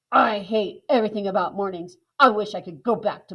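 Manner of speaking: mildly angry lizard grumbling about mornings; grumpy, angry lizard. Acted. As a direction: grouse about mornings, fed up. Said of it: "Lizard replied angrily".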